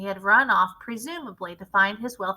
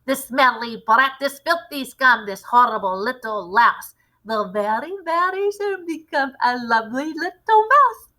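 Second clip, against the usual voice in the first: shouting; 3 semitones higher, 6 dB louder than usual. A narrator's reading. Witch shouts her gloating rhyme at the crowd. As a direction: crow over the boy. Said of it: "she shouted".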